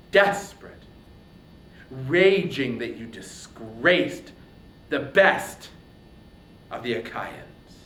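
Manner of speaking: loud, raging warrior hurling an oath; enraged hero swearing revenge on his king; furious Achilles. Acted.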